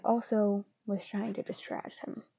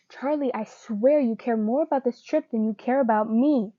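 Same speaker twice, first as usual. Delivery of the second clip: hurt yelling; 5 dB louder than usual. Acted. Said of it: "Why was he yelling?".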